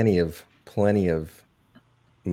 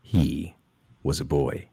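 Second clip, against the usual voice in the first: movie trailer voice; 2 semitones lower than usual. Acted. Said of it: "I have to do this one in the trailer voice".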